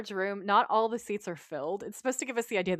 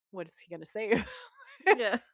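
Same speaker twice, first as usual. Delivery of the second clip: amused retelling; faster than usual. Retold or imitated. Retelling characters' dread, laughing herself.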